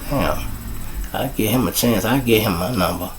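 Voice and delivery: soft imitated inner voice; musing to oneself. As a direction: drop the volume right down, thinking aloud. Voices someone's private interested thought.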